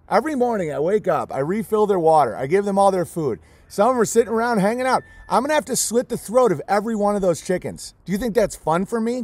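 normal talking voice

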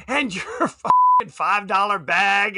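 quoting through a laugh; can't keep a straight face on the quote. Retold or imitated. Retelling the kid's purse insult while laughing. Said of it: "you hear her say".

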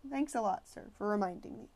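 bitter, sarcastic thanks. Acted. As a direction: throw the thanks back sarcastically. Sarcastic reply to teacher.

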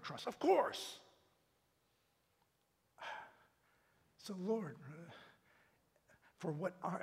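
earnest prayer, surging then hushed; fervent prayer. Real, not acted. Preacher leading the congregation in closing prayer, fervent. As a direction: pour your heart out to God.

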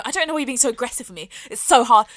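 quick mock-hurt protest; passive-aggressive. Girl to the man telling her off, passive-aggressive. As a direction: imitate an annoying, put-upon complainer. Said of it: "passive-aggressive, annoying tone".

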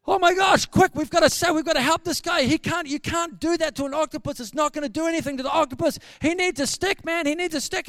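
loud, high, urgent alarm; hysterical panic. Retold or imitated. Gary watching John Wayne attacked by the octopus, hysterical. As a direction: cry out frantically for help. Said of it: "He's gone hysterical".

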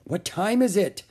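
high anxious question; urgent; boy pressing for the time. A narrator's reading. Jack asks again anxiously.

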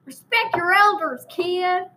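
put-on old-timer scolding in rural Texan; hammed-up country Texan elder; put-on Texan accent. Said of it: "I'm gonna change accents for a while".

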